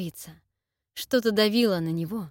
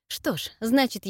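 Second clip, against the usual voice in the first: usual speaking voice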